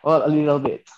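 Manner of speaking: playful touch of British accent. Shown as a demonstration. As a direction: answer in a lightly put-on British accent. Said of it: "May, may British accent ka na?".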